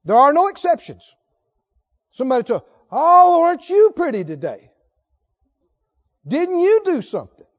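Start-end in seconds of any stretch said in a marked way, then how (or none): 2.9-7.5 high, loud syrupy sarcasm; sarcastic mock praise. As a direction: sneer the compliment in a sing-song. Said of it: "Anytime you hear somebody talking like this".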